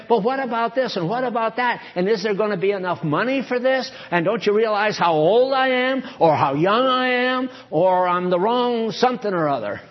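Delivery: piled-up mock protest; mock excuses. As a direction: run through a list of acted objections. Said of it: "you don't have to say".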